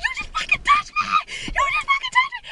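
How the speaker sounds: very high-pitched accusation; reenacted hysterical yelling; outraged screaming. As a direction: shriek it at the person who grabbed you. Reenacts confronting scare actor.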